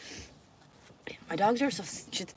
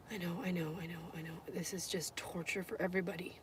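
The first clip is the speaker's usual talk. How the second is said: soft soothing; 13 dB quieter, faster than usual. Real, not acted. Soothing the dog softly.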